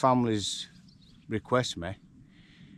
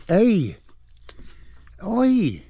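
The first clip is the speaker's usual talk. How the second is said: loud high shout at a nipping donkey; startled yell of Hey then Oi; sharp shout; 11 semitones higher, 8 dB louder than usual. Real, not acted. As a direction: bark a warning to stop biting. Scolding biting donkey.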